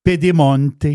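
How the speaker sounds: showy Italian pronunciation of a place name; Italian accent. Shown as a demonstration. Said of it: "adore mon accent, euh, italien". (accent italien affiché)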